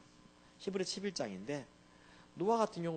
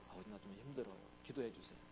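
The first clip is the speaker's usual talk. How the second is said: soft honest plea; 7 semitones lower, 12 dB quieter, faster than usual. Retold or imitated. Child admits struggling.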